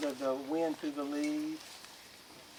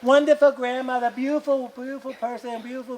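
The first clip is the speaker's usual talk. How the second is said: loud grieving lament; 6 semitones higher, 8 dB louder than usual. Acted. People mourning grandmother's passing.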